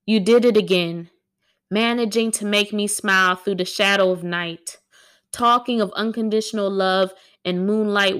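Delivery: even, measured spoken-word recital; poem reading. Acted. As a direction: recite it steadily, line by line. Reading own poem aloud.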